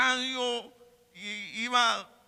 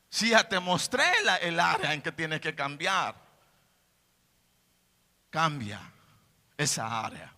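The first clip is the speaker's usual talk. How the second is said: voice of God; 7 semitones lower than usual. Acted. Preacher gives God's reply to the believer, low and firm.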